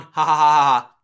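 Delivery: loud, spelled-out ha-ha laugh; written-out laugh. Retold or imitated. Podcaster reading own notes, loud mock laughing. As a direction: read the laughter out loudly. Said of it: "I just wrote".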